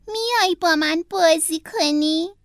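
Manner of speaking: slow coaxing fox voice; a sly fox inviting the turtle to play. Acted. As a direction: tempt him to play, slowly.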